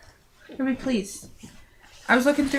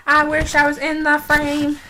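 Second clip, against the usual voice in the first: drawn-out wish; 7 semitones higher, 6 dB louder, slower than usual. Real, not acted. Wistful line said twice.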